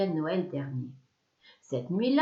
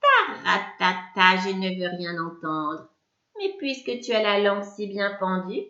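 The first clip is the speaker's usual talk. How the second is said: witch answers; 4 semitones higher than usual. Acted. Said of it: "La sorcière me répond".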